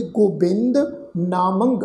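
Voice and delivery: word-by-word scripture recitation; recitation demo. Shown as a demonstration. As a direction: recite each word apart, with pauses.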